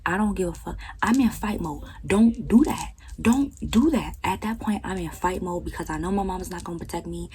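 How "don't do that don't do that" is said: sharp warning. Retold or imitated. Retold fight, warning off family.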